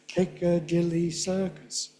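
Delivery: slow "Piccadilly Circus", beats on PIC, DIL and CIR; three stresses. Shown as a demonstration. Teacher demonstrating to class, three stresses. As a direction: give PIC, DIL and CIR each a full beat. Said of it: "you've now got three stresses".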